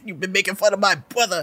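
"brother" with W in place of R; speech-impediment impression. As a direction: repeat the brother's line, saying bwother. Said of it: "brother had the same thing".

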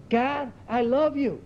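imitating a train passenger praising God aloud; out loud, heartfelt. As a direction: draw it out with open devotion. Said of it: "you know, out loud".

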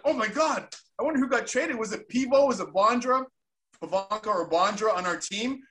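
high, eager guessing; replaying his own eager wondering; retold excitement. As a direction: rattle off names, keyed up and curious.

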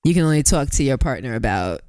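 ordinary delivery

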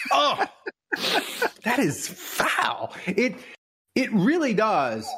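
choking down a harsh drink, strained; burning throat from harsh liquor. Real, not acted. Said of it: "my eyes are watering".

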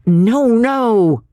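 high, emphatic interruption; interposing. A narrator's reading. Second man correcting his companion, interposing. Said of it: "interposed the second man".

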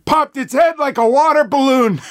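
put-on high old lady voice. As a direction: cackle it like a gleeful granny. Patty's old lady voice continues.

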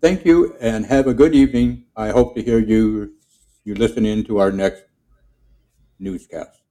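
lightly voiced newscaster; newsman voice. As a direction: sign off the broadcast like a radio host. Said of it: "And this is Ned the newsman".

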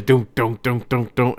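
rhythmic repeated car thumps; imitated thudding noise. Son retelling dad's car noise, imitated thudding. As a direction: mimic a bump knocking under the car. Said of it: "All I hear is".

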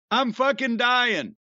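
giggling repeat; winding down from a laughing fit. Real, not acted. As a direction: still laughing through it.

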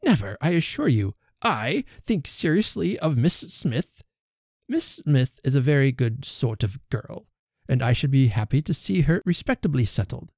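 huffy, offended suitor; a touch of wounded pride; affronted. Acted. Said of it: "affronted in his turn".

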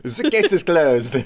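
high, slow mock Clouseau; fake French accent. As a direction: declare it in a hammy French accent. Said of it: "quoting Clouseau's accusation".

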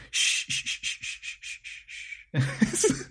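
long soft shushes, fading, voiceless; shushing. Retold or imitated. People calming a nervous horse, soft drawn-out shushing. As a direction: hush the horse slowly, trailing off. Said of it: "They just go".

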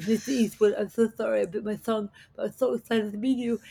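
a mock lisp as if the tongue is swollen, fast. Actress apologizing to Clint Eastwood with a mock swollen-tongue lisp. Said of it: "everything I was saying was lisping".

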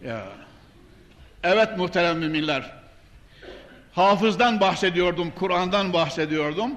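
ordinary delivery

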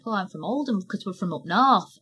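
light put-on Lancashire accent; a little Lancashire, playfully faked; fake Lancashire accent. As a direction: recount it in a mild mock Lancashire voice. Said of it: "little fake Lancashire accent".

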